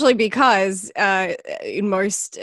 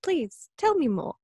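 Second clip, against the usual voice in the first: sarcastic high-pitched fascination, rising then easing; mock fascinated; 9 semitones higher than usual. Mocking someone who lectures her about Australia, fake fascinated. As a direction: gush with fake wonder.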